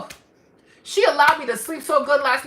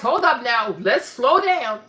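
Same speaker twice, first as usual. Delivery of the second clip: slow cautioning; 3 semitones lower, slower than usual. Retold or imitated. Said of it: "until Amanda says".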